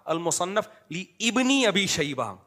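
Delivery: "لی ابن" separated as li ibni, without pausing; repeated misreading. Retold or imitated. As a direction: sound the alif in "لی ابن ابی شیبہ". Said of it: "وقف بھی نہیں کر رہے".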